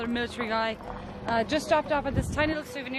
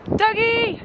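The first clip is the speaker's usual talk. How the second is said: excited call; 12 semitones higher, 4 dB louder than usual. Real, not acted. Calling friend at the top.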